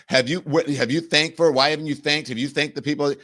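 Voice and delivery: loud, high mocking Vance voice. Mocking the vice president's pushy interruption, loud and high.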